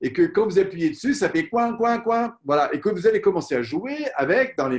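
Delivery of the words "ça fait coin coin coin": squeaky toy quack. Retold or imitated. Squeezing a latex toy mouse.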